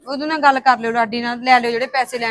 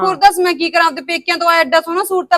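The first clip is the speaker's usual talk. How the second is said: louder, higher indignant reply; a raised, wounded protest; heated retort; 3 semitones higher, 3 dB louder than usual. Acted. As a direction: push back hard, offended. Daughter-in-law argues with mother-in-law.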